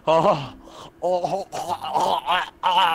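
panting after the chase; gasping, can't catch breath. Real, not acted. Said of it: "I can't breathe".

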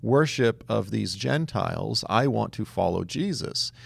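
high gasp then gushing praise; mock gushing delight. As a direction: play a naive enthusiast. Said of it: "It's not like".

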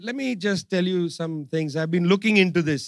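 quiet, low and calm; very calmly. Retold or imitated. Indian foreign minister answering accusations calmly. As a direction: say it evenly, unhurried. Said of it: "he said very calmly".

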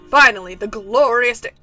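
giddy, grand and breathless; overexcited character voice. Acted. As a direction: gush like it's the best day ever. Overexcited character reads quest lines.

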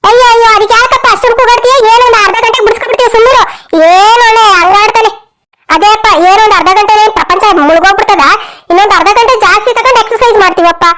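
acted squabbling indignation; indignant retort. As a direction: argue back and brush him off. Women argue back at gym owner.

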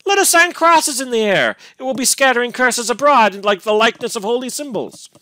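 loud, high, bitter mockery; fiendish scorn. A narrator's reading. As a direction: jeer furiously, voice soaring. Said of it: "still with the same fiendish scorn".

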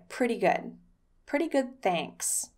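relaxed, easy "Pretty good, thanks"; casual and natural, like a native; natural reply. Shown as a demonstration. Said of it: "I would recommend saying".

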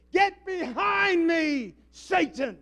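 slow, drawn-out, high and loud rebuke; commanding rebuke. Acted. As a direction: command Satan to get back. Preacher quoting Jesus rebuking Satan.

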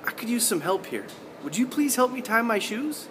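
polite asking. Shown as a demonstration. Teacher showing the good way to ask for help, softly pleading. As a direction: ask sweetly with puppy dog eyes. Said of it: "puppy dog eyes, and say".

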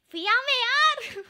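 high, drawn-out, loud cry; startlingly loud announcement. Retold or imitated. Streamer retelling what scared her friend, loud and slow. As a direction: announce it far too loudly, stretched out. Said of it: "lo espanté un poco".

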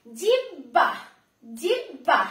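জিহ্বা as jib-bha, b first, breath after; b before h. Shown as a demonstration. Teacher shows pupils the order of sounds, b before h. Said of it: "বটা আগে উচ্চারণ হচ্ছে".

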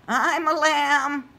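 high, slow lamb voice. Acted. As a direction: bleat it out gently. Lamb speaks.

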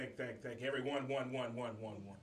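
mock public-address echo, words trailing off; stadium echo. Imitating the Yankee Stadium speech echo, fading repeats. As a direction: repeat each word fading like a ballpark PA echo. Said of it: "the Yankee Stadium echo".

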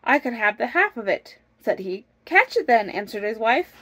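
lively, measured storybook narration; storytelling. A narrator's reading. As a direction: read the folk tale aloud with bounce. Reads a folk tale aloud.

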